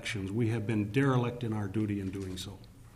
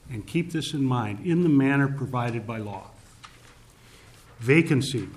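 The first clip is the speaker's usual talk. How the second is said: formal reading of law text; 3 dB louder than usual. Shown as a demonstration. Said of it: "this is what the current language in the Constitution says".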